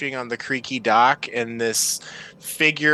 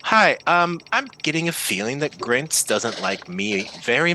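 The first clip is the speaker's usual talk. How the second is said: nervous half-elf; 2 semitones lower than usual. Acted. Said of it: "leaving this half-elf with you".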